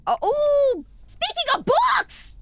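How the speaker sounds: high, loud sudden excitement; excited. Real, not acted. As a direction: burst out excitedly.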